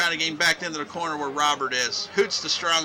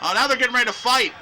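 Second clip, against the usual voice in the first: raised, excited wrestling commentary; excited play-by-play; 6 semitones higher, 5 dB louder than usual. Acted. Announcer calling tensions between tag partners, excited play-by-play. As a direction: call the brawl as it breaks out.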